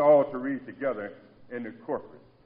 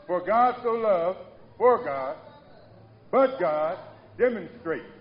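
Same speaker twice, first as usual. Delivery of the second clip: "For God so loved" slow and loud, stress on "For"; slow emphatic quoting; 3 semitones higher, 7 dB louder, slower than usual. Shown as a demonstration. Preacher contrasting two verses for the church, slow and loud. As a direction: drag out each verse opening. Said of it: "Y'all hear that?".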